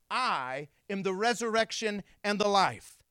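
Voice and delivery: long, firm "I", then ringing phrases; emphatic repeat. Acted. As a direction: proclaim it, with "I" held apart. Repeats Jesus' words more forcefully.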